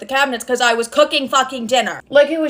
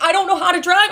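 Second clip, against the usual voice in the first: higher, imitating a panicked teen; panicked crying plea; 7 semitones higher, faster than usual. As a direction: beg like a scared kid at the wheel. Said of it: "I'm, like, bawling my eyes out".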